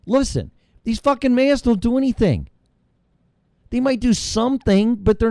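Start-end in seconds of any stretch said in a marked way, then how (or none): 0.1-2.5 exasperated retort. Retold or imitated. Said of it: "when you say something like".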